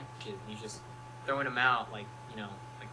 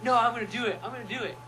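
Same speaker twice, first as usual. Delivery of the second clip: much higher playful taunt; teasing insistence; 10 semitones higher, 3 dB louder, faster than usual. Retold or imitated. Fan insisting he'll tell, playfully teasing. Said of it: "he's like".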